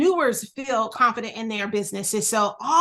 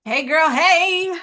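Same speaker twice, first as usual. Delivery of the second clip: sing-song greeting; 5 semitones higher, 5 dB louder, slower than usual. Real, not acted. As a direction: greet the crowd with a big playful lilt. Playful greeting to audience.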